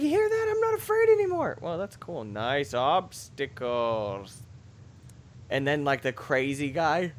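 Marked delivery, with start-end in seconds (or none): 0.0-1.6 high, dramatic movie quote; movie villain voice. Retold or imitated. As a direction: ham up the Home Alone line. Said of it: "He's like".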